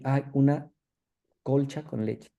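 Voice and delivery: "colcha" said with an l in place of the n of concha; a patient's muddled "colcha" for concha; paraphasia demo. Shown as a demonstration. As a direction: slip an l into concha so it becomes "colcha". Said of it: "fonemáticamente confunde el sonido".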